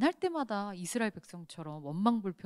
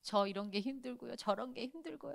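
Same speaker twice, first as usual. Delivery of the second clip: 푸념; 8 dB quieter than usual. Retold or imitated. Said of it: "막 이럴 때가 있어요".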